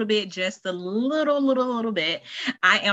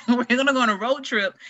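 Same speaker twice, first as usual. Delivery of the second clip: laughing, a touch higher; amused repeat; 5 semitones higher than usual. Real, not acted. Aunt echoing her niece's road trip plan, laughing. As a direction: echo it back through a laugh.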